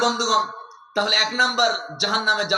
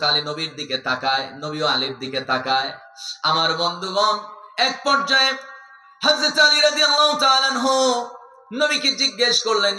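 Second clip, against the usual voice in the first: melodic sermon storytelling; 2 semitones lower than usual. Acted. Preacher tells the congregation of Ali and the arrow, melodic chanting.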